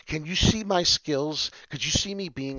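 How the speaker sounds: excited. Real, not acted. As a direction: show off proudly. Boasting to viewers.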